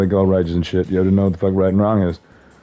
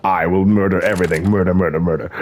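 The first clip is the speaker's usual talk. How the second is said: lightly put-on British accent; mock British accent. Imitating every woman just talking, in a mock British accent. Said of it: "You hear that accent?".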